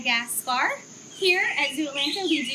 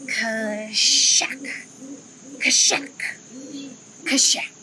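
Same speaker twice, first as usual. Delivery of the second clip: lemur shouting call; 3 semitones lower, 4 dB louder, much slower than usual. Acted. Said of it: "they shouted at each other as loud as a big branch breaking".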